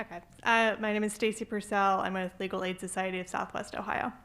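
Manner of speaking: muffled, speaking through a mask; through a face mask. Real, not acted. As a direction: talk through a cloth mask. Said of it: "can you hear me okay with the mask on".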